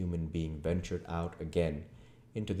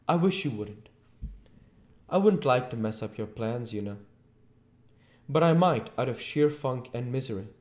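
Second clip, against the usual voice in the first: high, loud, plaintive objection; high-pitched, wretched protest; miserable Mr Marvel; 7 semitones higher, 6 dB louder than usual. A narrator's reading. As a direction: plead to be let off.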